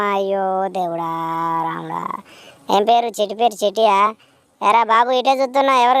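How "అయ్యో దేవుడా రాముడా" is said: slow, fading mock wail to God; a hammed-up sigh of despair; mock lament. Mock lament after her marriage news. (నాటకీయంగా అయ్యో దేవుడా అని వాపోవడం)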